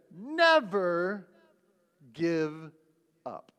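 Churchill quote. Retold or imitated. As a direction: proclaim each word like a wartime speech. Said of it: "But he said".

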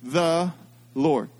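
"the Lord." recited with the congregation, low and falling; group recital of "the Lord."; call and response. Shown as a demonstration. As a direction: lead them to say "the Lord." together. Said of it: "Say it with me".

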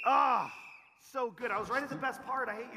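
high-pitched playful protest at being cut off; mock outrage. Cut off at story's best part.

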